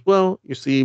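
high, loud burst. Retold or imitated. Anthea explains, voice jumps up.

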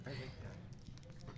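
slow breathy whispered repeat. Real, not acted. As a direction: drop to a guilty whisper.

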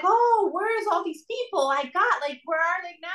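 high, panicked king's voice; desperate king. Retold or imitated. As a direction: cry out like a desperate king hiding in a cave.

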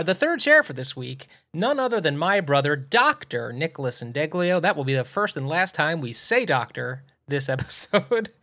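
ordinary talk

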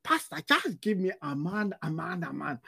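softening, begging plea; desperate pleading. Retold or imitated. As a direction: plead with the pastor, fading. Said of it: "then she just goes like".

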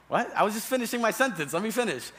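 playfully affronted at being cut off; indignant protest. Acted. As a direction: insist on finishing your sentence. Acted protest at being talked over.

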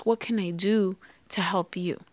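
a soft, breathy whisper of an offer to help; whispered tender plea. Retold or imitated. Wife gently asking her husband how to help, whispered.

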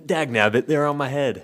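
hammed-up old lady exasperation; older lady. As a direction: play a flustered grandma finding her glasses. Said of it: "like, a grandma or, like, an older lady".

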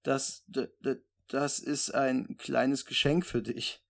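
slow, stuttering, flustered; excited stammer. Acted. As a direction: stumble over it, all flustered. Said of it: "plötzlich ganz aufgeregt".

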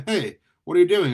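loud, high, startled shout; alarmed call. A narrator's reading. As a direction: call out in protest, voice jumping up. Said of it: "Eddie called".

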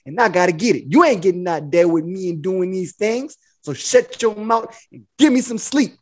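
lightly put-on slick pimp talk; retold smooth-talking pimp act; Iceberg Slim. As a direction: lay down the law with a touch of pimp swagger. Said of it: "I was talking like Iceberg Slim".

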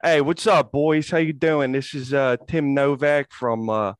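put-on Philly accent as a laid-back local guy. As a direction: lay on a Philly accent, easygoing. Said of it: "my brother could do a fucking phenomenal Philly accent".

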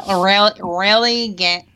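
Michigan accent pushed into the sinuses; nasal Michigan accent. Shown as a demonstration. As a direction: talk through the sinuses, Michigan style. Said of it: "really gotta get in your sinuses".

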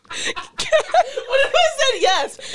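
a terrible hammed-up British accent, laughing; bad British accent. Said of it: "worst British accent I've ever done".

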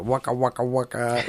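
hammy panto-style waka waka; mock pantomime overacting; pantomime acting. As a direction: ham it up like a pantomime clown. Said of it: "sort of like pantomime acting".

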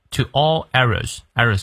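"errors" stressed on the first syllable. Shown as a demonstration. Teacher showing learners where stress falls, front-stressed "errors". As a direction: hit the front of "errors", let the end fall away. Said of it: "errors重音在前".

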